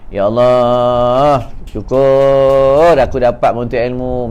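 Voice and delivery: slow, low, drawn-out plea; mock tearful prayer. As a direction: act out a weepy thanksgiving, mildly. (doa syukur seolah-olah menangis, perlahan)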